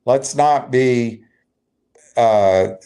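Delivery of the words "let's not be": ordinary talk, nothing marked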